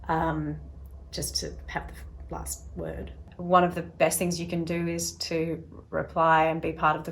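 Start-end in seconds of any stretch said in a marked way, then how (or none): none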